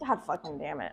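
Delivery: normal talking voice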